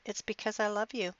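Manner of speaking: husband reassuring his tearful wife, softly; gentle. Retold or imitated. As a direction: say it gently, close to her. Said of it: "I gently lifted her chin".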